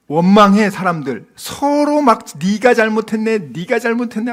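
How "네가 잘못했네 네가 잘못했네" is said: mock bickering, pitched up; acted finger-pointing squabble; blaming each other. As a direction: toss the blame back and forth. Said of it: "하고 원망해".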